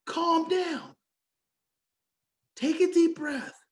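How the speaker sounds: Calm down called out sharply; shouted calm down. Shown as a demonstration. Speaker demos a sharper take for stressed parents, shouted. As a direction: bark Calm down at them.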